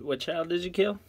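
high, loud disbelief; shocked question. Real, not acted. Filming vlogger to partner, high shocked question. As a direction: ask it in alarmed disbelief. Shocked at killed child claim.

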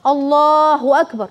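put-on slow, drawn out الله أكبر as a child first says it; a toddler's careful الله أكبر; slow first words. Shown as a demonstration. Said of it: "ينطق كده".

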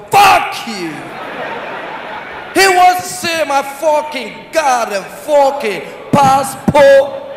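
mock outrage, words stretched slowly; shouting American. American traveller brushing off calming words, indignant mock shout. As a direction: protest like an affronted American, very drawn out. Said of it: "The American guy say dey shout".

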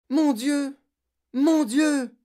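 high, loud repeated outcry; startled woman crying out; shocked exclamation. A narrator's reading. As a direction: exclaim in alarm at the child's state. Teacher alarmed at child running up.

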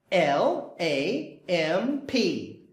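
L A M P spelled letter by letter, slowly. Shown as a demonstration. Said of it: "spelling out letters".

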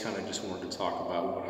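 speaking through a smoky breath; talking just after a pipe puff; exhaling smoke while talking. Real, not acted. Seen 1: Pipe held at chest, not in mouth; smoke exhaled while talking.

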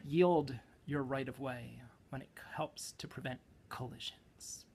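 mock-earnest slam poet with punched words and dramatic pauses; slam poem. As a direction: declaim a dry manual like slam poetry. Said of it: "I'm supposed to do it like a slam poem".

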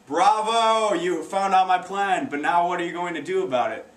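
lightly voiced gloating villain; mock applause from a mastermind; evil genius. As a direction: congratulate the hero with a hint of villainous mockery. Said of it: "the evil geniuses is what I like".

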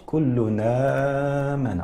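slow teaching model of كل آمن in Warsh's transfer; Warsh reading. Shown as a demonstration. Teacher shows viewers how Warsh reads كل آمن. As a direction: say كل آمن slowly with the hamza's vowel moved onto the tanwin. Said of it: "يقرأ ورش".

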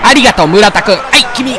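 usual speaking voice

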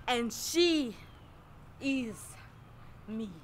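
measured lines with long dramatic pauses; poetic recitation. Acted. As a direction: recite it like a spoken-word self-portrait, phrase by phrase. Recites poetic third-person self-portrait.

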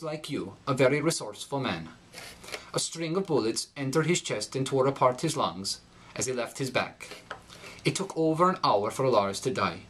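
put-on a light Norwegian accent with darkened i and rising R endings; Scandinavian accent. Norwegian fugitive mourning his lost friend Lars, in a Scandinavian accent. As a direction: read the speech with a Swedish lilt. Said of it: "The following is taken from The Martian Shuffle".

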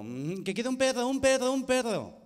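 put-on exasperated kid repeating "perro"; frustrated repeating. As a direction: hammer the word home. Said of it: "con el gallito".

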